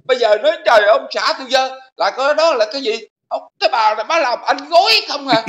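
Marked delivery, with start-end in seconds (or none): 3.3-5.4 laughing disbelief. Real, not acted.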